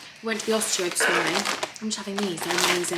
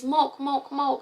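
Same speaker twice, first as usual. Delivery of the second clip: put-on toddler milk; 5 semitones higher, much slower than usual. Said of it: "She says".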